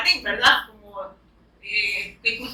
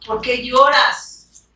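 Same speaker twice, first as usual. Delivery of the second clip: very slow, gentle question as Jesus; tender question; much slower than usual. Acted. Jesus gently asking the weeping woman, slow and tender.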